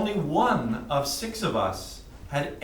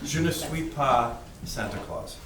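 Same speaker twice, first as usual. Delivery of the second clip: broken French. Real, not acted. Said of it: "mes habiletés conversationnelles sont faibles".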